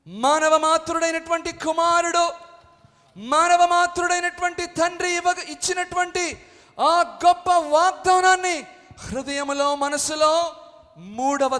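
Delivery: high, loud preaching over music; full-force preaching. Acted. Pastor preaching to the church about a human father. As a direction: build the argument boldly.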